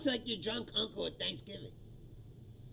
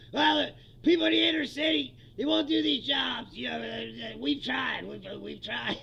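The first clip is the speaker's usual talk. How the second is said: mocking Trump; 4 dB louder than usual. Acting out Trump on TV.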